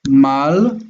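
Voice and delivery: mal held alone as a closed syllable; separated syllable. Shown as a demonstration. Teacher showing the broken syllable, mal set apart. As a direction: say mal by itself, then stop. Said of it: "we have a broken syllable here".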